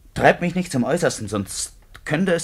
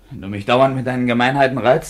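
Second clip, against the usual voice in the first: angry; 6 dB louder than usual. Acted. Quarrel, he is provoked.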